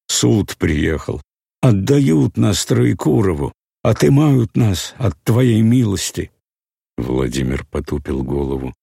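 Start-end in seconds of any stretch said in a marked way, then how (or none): 0.1-6.3 запыхавшийся старик, громче и выше; говорит задыхаясь, на срыве. A narrator's reading. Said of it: "задыхаясь". (старик задыхается)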